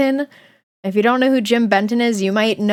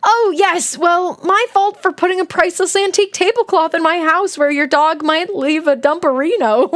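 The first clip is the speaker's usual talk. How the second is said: higher, mock-English politeness; polite English accent; 7 semitones higher than usual. Forgiving host excusing the dog's mess, polite English accent. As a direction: answer graciously in a put-on English accent. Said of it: "You'd be all".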